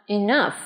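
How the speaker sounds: "Enough" with a clear f for the gh; final f. Shown as a demonstration. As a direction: model "Enough" ending on a released f. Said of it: "thường có thể phát âm là âm f".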